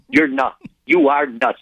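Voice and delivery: high-pitched incredulous wife; scoffing disbelief. Retold or imitated. Wife to husband about shipping pizza, scoffing disbelief. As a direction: tell him he's lost it, pitched high.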